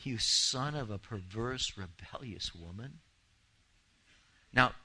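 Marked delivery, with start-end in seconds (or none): 0.0-3.0 shocked, slow; echoing a cruel father in disbelief; slow disbelieving repeat. Shown as a demonstration. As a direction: repeat the insult slowly, dropping to a hush on woman.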